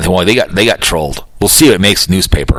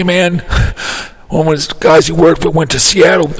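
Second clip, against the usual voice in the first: stoner Bill Clinton. Retold or imitated. Prank Clinton rambles to listeners about marijuana, lightly voiced. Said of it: "he doesn't do the best Bill Clinton".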